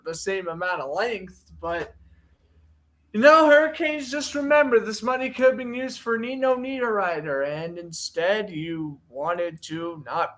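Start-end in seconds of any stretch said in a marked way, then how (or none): 3.1-7.5 mock scold. Addressing the team directly.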